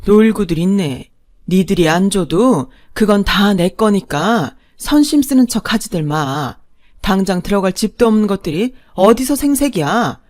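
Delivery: loud, contemptuous put-down; scornful scoff. Acted. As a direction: laugh off their fake generosity. Mother-in-law scoffs at them. (크게 비웃는 시어머니)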